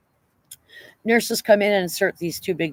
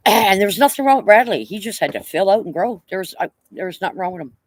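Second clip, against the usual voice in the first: emphatic; 5 semitones higher, 7 dB louder than usual. Real, not acted. Praising the surviving twin.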